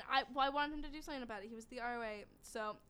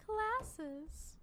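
infomercial voice. Pretend. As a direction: sell it like a TV ad. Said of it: "this is an infomercial".

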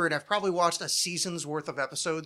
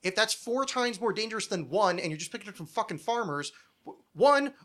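exasperated rant; 2 semitones higher than usual. Real, not acted. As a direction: argue it, baffled and worked up. Exasperated ranting about episode.

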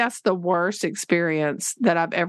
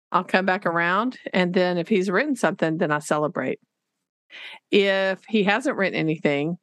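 normal talking voice

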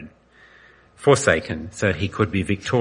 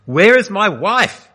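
much higher, louder, slow terrified scream; 12 semitones higher, 7 dB louder, slower than usual. A narrator's reading. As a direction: scream the question into the void. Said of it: "he screamed".

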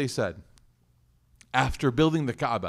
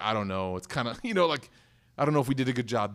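unsure mumble; 4 semitones lower than usual. Pretend. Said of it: "they're like".

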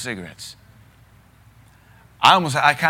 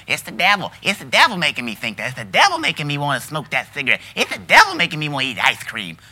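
mock whiny excuse-maker, louder; 6 dB louder than usual. Preacher mocking churchgoers who blame the devil, whiny mimicry. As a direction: mimic someone blaming the devil. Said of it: "You can't just blame it".

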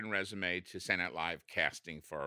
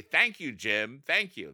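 louder and higher, gushing thanks to the host; hammed-up gratitude for the big laugh; grateful shtick line; 3 semitones higher, 7 dB louder, slower than usual. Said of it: "that was supposed to be the shtick".

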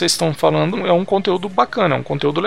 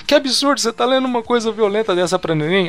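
higher-pitched retold protest; mock indignation; 4 semitones higher than usual. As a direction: act out a scandalized scolding. Acted scolding in retold film scene.

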